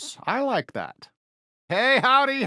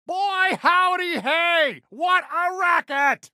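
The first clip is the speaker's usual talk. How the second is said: high, surprised cowboy yelp; mock-startled sheriff shout; startled exclamation; 9 semitones higher, slower than usual. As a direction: jump at the noise, then call it out. Startled by a loud noise.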